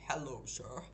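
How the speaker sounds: half-hearted attempt at a British accent; poor British accent. Shown as a demonstration. Streamer trying a greeting before giving up, weak British accent. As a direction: try a brief, unconvincing British greeting. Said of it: "my British accent is, isn't the best".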